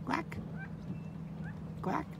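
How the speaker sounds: soft imitated quacking; duck quacks. Real, not acted. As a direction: quack softly to call the duck. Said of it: "Do I sound like a duck?".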